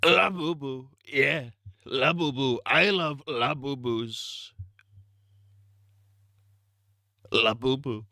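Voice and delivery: hammed-up Trump; Trump impression. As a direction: savor the word like Trump. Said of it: "in Trump's voice".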